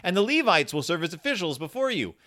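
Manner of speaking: lightly solemn Bible proclamation; scripture reading. Acted. Opening a podcast with a passage from Chronicles, scripture reading. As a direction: read it out as a formal charge from scripture. Reads scripture aloud to open show.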